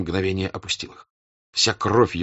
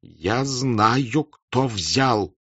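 trembling voice; 2 semitones higher, much slower than usual. Acted. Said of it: "повторил Ростов дрожащим голосом".

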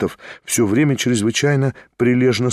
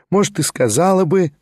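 rapturous; 7 semitones higher than usual. Acted. Marya teases Shatov, repeating it rapturously. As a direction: repeat it as if overjoyed. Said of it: "восторженно повторила она".

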